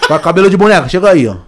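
loud teasing through laughter; mock them while laughing; laughing taunt. Continues the imagined taunt.

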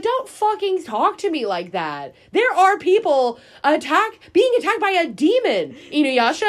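hammed-up yell at Inuyasha; mock angry rebuke. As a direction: tell him off over the demon attack. Retold Kaede angry rebuke.

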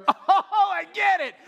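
high, loud sudden oh; hammed-up dawning realization; mock realization. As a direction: act the penny dropping.

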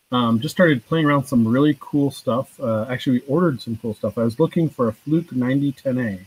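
muffled, off-mic voice; through a tube. Real, not acted. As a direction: far from the microphone. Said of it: "It sounds like you're talking through a tube".

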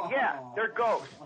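slow, mocking agreement; patronizing wife. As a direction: humor him, drawing it out. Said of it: "she starts patronizing me".

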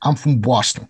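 put-on Boston accent; amateur British go at Boston. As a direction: introduce yourself as a movie Bostonian. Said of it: "I've got my Boston accent".

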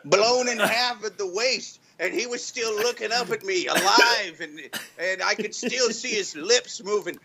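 lightly voiced grizzled veteran reminiscing; mock solemn war story; hammy war veteran. Mock war veteran monologue, music.

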